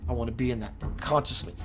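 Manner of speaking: channeled message delivered as a spiritual vessel; channel mode. Acted. Speaking as a channel to livestream viewers, preaching delivery. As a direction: let the message flow through you, unfiltered. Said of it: "I'm gonna go into channel mode".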